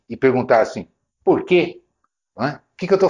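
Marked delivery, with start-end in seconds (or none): 1.2-1.8 curt, confrontational "Por quê?" with nose in the air; aggressive why. Shown as a demonstration. Seller challenging a hesitant customer, curt and combative. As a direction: throw "Por quê?" at them like picking a fight. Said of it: "de uma maneira agressiva, nariz empinado".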